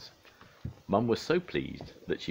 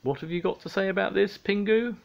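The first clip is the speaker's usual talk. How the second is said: high, raised-voice parental demand; stern demand; 5 dB louder than usual. A narrator's reading. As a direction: confront the child sternly. Dad confronts the culprit.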